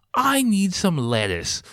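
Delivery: high, slow mock man-child voice; whiny man-child. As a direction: imitate a needy overgrown kid. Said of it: "full man child".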